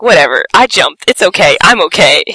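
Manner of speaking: mildly sulky retold muttering to oneself; a touch of a teenage pout; pouty. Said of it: "I'm all, like, pouty".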